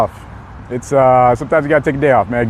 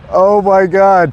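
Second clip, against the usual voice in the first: excited; 4 semitones higher, much slower than usual. Real, not acted. Thrilled viewers watch his stream.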